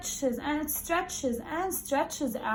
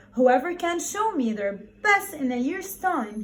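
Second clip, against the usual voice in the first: lightly voiced emperor announcing, a touch louder; emperor's proclamation; 3 semitones higher, 5 dB louder than usual. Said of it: "he said".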